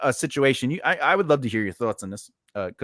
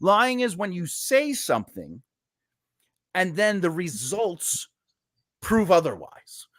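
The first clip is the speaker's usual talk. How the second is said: silent rage; 3 semitones higher than usual. Retold or imitated. Boss explaining lying to a worker, contained rage. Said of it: "I was raging in silence".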